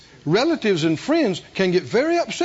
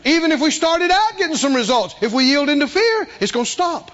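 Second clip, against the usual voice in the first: higher, louder preacher's emphasis; fervent preaching; 8 semitones higher, 3 dB louder than usual. Acted. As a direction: drive the point home. Preaching at full force.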